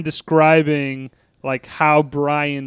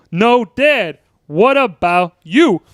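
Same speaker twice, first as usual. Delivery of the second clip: pleading son; 5 semitones higher, 4 dB louder, much slower than usual. Retold or imitated. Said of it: "Oh, mine? It's real easy".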